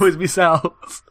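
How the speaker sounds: echoed in an odd put-on voice. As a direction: repeat "Always be sells" in a silly voice. Echoing with a put-on voice.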